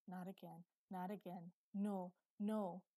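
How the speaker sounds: a contained cry of dread; inward shout. A narrator's reading. Boy pleading in his mind as men approach, inward shout. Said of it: "The boy shouted in his mind".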